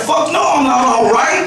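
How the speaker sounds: furious rant about the ride; indignant outburst. Retold or imitated. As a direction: vent every injury. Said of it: "I'm like".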